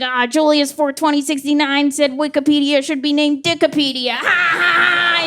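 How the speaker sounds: high, amused dad voice; chuckling dad. Retold or imitated. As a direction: read it out tickled. Phone dad reading, laughing.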